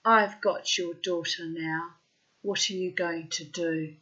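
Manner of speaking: slow, measured taunt; mock sinister. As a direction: imitate a half-joking threat. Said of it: "it sounded really sinister".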